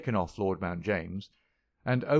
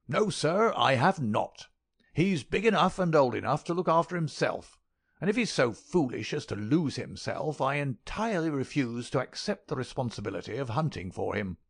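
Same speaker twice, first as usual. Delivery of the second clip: put-on high crackling old voice, harangue; stingy old miser; 5 semitones higher than usual. A narrator's reading. Miser lecturing the detective, high querulous old voice. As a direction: lay down the law about money.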